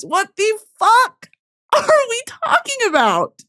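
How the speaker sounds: high-pitched, overwhelmed disbelief; incredulous outburst. Real, not acted. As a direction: burst out high in sheer astonishment. Overwhelmed outburst about the aurora.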